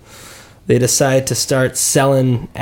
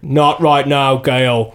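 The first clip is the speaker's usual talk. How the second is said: bad American accent; much slower than usual. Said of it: "He sounded like".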